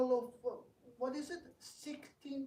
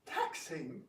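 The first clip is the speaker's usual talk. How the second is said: amused scoff; 2 semitones lower than usual. Acted. Rukmi mocking his sister's word, laughing.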